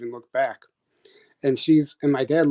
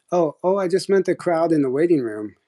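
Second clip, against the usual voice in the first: higher-pitched imitation of a nervous nurse; 4 semitones higher than usual. Nurse covering after being questioned, mildly nervous. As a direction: backtrack with a touch of nerves. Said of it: "she got, like, kinda nervous".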